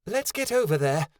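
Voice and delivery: high, loud eager shout; high-pitched character shout. A narrator's reading. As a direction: shout to get everyone moving. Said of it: "Snowdrop shouted".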